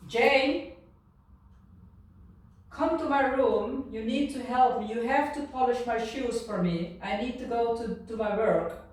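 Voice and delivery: put-on high, loud summons to a child; commanding adult. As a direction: order a child into your room, loudly. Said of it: "then this voice is coming".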